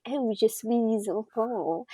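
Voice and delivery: lightly mocked British-accented French, drawn out; slow French with an English schoolroom accent. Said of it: "super British person will start speaking French".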